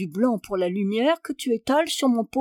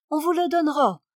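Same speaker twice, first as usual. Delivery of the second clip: calling back; 6 semitones higher, faster than usual. A narrator's reading. Baroness calls back through door.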